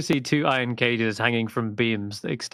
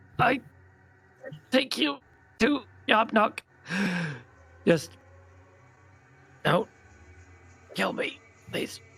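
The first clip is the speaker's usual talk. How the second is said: muttering quietly under breath, higher pitch; 10 semitones higher than usual. Voicing a cornered, wounded goblin begging not to be killed: under his breath. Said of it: "he says under his breath".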